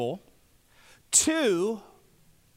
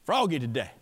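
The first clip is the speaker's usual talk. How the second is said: a low, croaky frog voice that drops; froggy voice; 7 semitones lower than usual. Pretend. Preacher clowns in a frog voice for the congregation. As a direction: play a silly frog for a laugh. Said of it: "I don't even know what that was".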